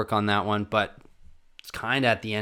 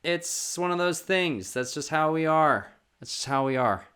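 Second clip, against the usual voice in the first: tag; 7 semitones higher, 3 dB louder than usual. Real, not acted. Defends family's discomfort with crying.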